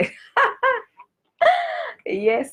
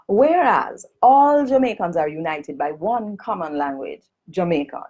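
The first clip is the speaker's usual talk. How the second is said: Jamaican Standard English; 3 semitones higher than usual. Shown as a demonstration. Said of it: "read it in Jamaican Standard English".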